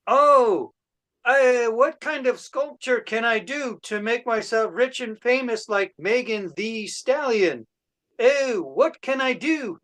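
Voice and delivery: a tormented sculptor searching for an idea; Rodin with creative block. Acted. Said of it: "my impression of French, French nineteenth century sculptor Auguste Rodin having a creative block".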